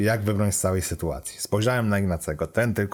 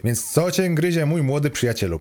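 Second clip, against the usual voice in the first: higher-pitched, lightly wheedling question; mildly ingratiating; 8 semitones higher, 4 dB louder than usual. A narrator's reading. Car computer sweet-talks the young passenger, mildly ingratiating. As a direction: coax him with a touch of flattery. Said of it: "Przymilnie zagadał Kom".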